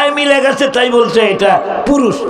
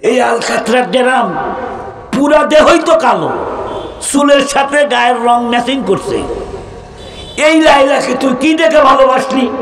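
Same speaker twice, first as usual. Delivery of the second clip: mocking scorn; 3 semitones higher than usual. Real, not acted. Preacher mocking Laila's darkness.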